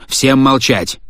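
barked order for silence; commanding shout. A narrator's reading. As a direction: silence the whole room.

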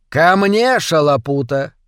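громкий властный окрик; позови слугу, как собаку; окрик хозяина. Acted. (хозяин сердито подзывает Шалопуту)

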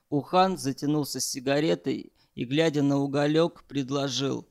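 usual speaking voice

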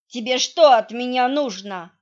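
slurred, tongue-tied and loud; drunk-sounding slur; slurred speech. Acted. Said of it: "заплетающимся языком спросил Витя".

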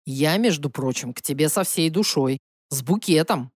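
low, oily charm of an ex. Acted. Emil's voice, low.

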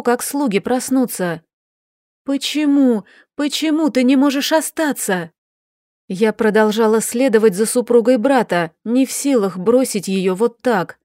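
put-on young Sofi pleading. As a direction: press her aunt for a promise. Sofi answers Daniela hurriedly.

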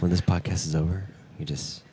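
hushed whisper into the mic. Real, not acted. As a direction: drop to a near whisper. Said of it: "I'm whispering into the mic".

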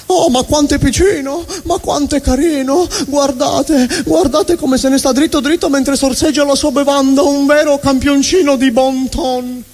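put-on high, cooing old lady voice; doting old ladies. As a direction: coo over the little one like a granny. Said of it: "fra le signore di una certa età". (voce da signora anziana intenerita)

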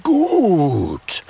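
loud booming grunt of a big dragon; one loud dragon grunt; dragon grumble. A narrator's reading. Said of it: "brummt Udo".

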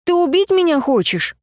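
high-pitched, distressed questions; pleading. A narrator's reading. Girl asking if he means to kill her, pleading. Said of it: "взмолилась я".

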